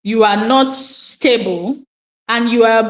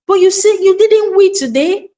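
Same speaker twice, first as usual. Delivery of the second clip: much higher, lifted questioning tune; delighted parent's surprise; 8 semitones higher than usual. Acted. Parent coming back to the child's news, acted high surprise. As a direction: act amazed at the child's news.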